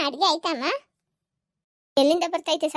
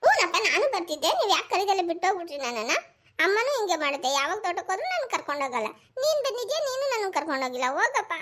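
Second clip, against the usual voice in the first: acted sobby whine, pitch jumping; sulky, tearful accusations; crying complaint; 3 semitones higher than usual. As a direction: protest tearfully like a left-out child. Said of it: "ಯಾಕ್ ಅಳ್ತಾ ಇರೋದು".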